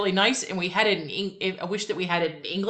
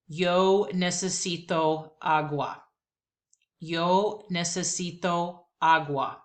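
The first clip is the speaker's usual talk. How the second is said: slow repeat-after-me Spanish; slower than usual. Shown as a demonstration. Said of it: "Here we go".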